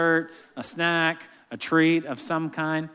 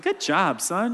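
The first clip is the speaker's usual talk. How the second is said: gruff mock praise; lightly voiced macho dad; a hint of the tough guy; macho man voice; 4 semitones higher, slower than usual. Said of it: "this epic macho man voice".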